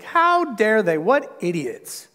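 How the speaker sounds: slow, scornful mock outrage at the Corinthians; mock indignation. Preacher mocking smug listeners, slow mock scorn. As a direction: drag out the contempt, half in jest. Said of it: "be like".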